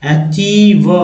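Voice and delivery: अचीव stretched slowly as a-cheev; slow model word. Shown as a demonstration. Teacher showing students how to say अचीव, slowly. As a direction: draw out अचीव for the class. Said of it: "CH को च पढ़ रहे हैं".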